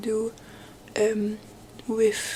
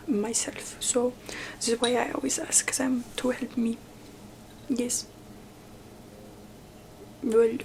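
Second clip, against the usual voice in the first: whispered queen roleplay; 3 dB louder than usual. Acted. Queen whispers to her visitor in a haughty roleplay. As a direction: play the queen dismissing a visitor, hushed.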